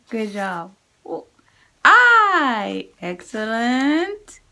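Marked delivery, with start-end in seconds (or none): 1.8-2.9 I called out loud and high; big voice. Shown as a demonstration. Teacher shouting sight words for kids to repeat. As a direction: shout the word out for the class. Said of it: "Big voice".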